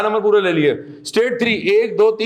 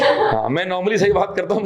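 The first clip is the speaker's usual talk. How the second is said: laughing. Real, not acted. Teacher jokes about being right.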